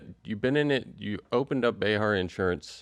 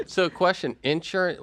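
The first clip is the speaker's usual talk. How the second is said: amused; 10 semitones higher, 4 dB louder than usual. Real, not acted. Host still amused, high.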